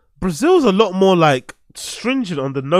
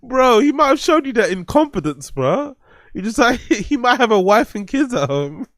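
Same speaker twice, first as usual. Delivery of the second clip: high-pitched, laughing disbelief; incredulous laughter; 9 semitones higher than usual. Real, not acted. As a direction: protest to your mate while cracking up.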